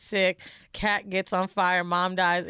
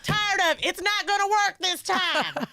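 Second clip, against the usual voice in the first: mock angry; 9 semitones higher, slower than usual. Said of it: "She's like".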